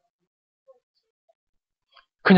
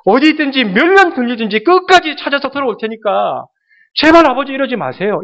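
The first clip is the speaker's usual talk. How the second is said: pleading son; 3 semitones higher, 3 dB louder than usual. Pretend. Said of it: "이렇게 나와야 아들이죠".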